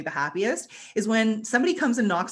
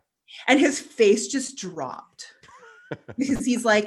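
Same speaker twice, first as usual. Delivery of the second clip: ordinary talk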